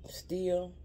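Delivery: a sudden soft whisper on still; breathy hush on still. Real, not acted. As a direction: let the word still fall to a whisper. Emotional talk about grieving.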